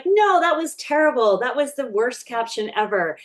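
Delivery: a sudden, mock-fed-up scold; exasperated complaint. Shown as a demonstration. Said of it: "sometimes I'll say".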